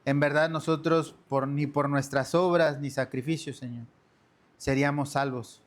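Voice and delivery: orar con fervor ante la congregación; súplica humilde al Padre; oración. Acted. Oración dirigida de pie. (el pastor guía a los hermanos en oración, con fervor)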